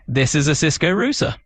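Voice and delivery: lightly UK-accented example sentence; British English accent. Shown as a demonstration. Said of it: "that router seems more like an English accent".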